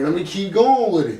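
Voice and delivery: recalling his first listeners, lightly excited; eager thought. Retold or imitated. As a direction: pitch it up like a fresh decision to keep going. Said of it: "I'm like".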